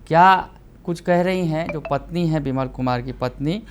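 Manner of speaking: brisk, emphatic TV news delivery; news anchor read. Acted. Anchor presents the murder story to viewers, news read.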